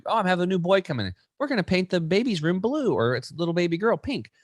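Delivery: a hint of a proud expectant parent; imagined excited parent. Imagined expectant parent planning nursery.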